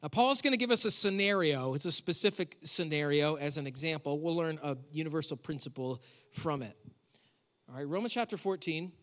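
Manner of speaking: ordinary delivery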